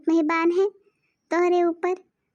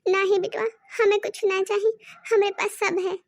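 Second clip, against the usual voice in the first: fake crying; 5 semitones higher, 3 dB louder than usual. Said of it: "काहे रो रही हो?".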